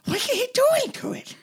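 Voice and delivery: put-on high squeaky Australian accent. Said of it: "I was doing an Australian accent".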